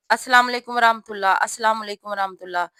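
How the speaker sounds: fast mock, السلام علیکم ورحمۃ اللہ slurred together; imitating rushed salaam. Teacher imitating sisters rushing the salaam, fast. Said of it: "اتنی تیزی سے".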